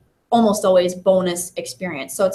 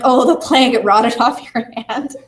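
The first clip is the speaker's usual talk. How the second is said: higher, louder playful bad-news announcement; mock dismay, laughing; 4 semitones higher, 3 dB louder than usual. Teacher mock-announces plague to players, laughing.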